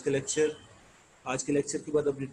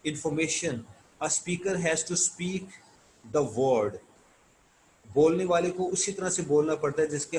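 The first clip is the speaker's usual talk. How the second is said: reading aloud; much slower than usual. Shown as a demonstration. Teacher reads English text slowly.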